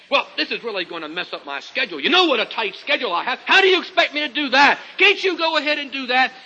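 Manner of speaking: fast, rising mock complaint; hammed-up put-upon husband whining; playful imitation of a grumbling husband. Husband's grumbling excuse to wife.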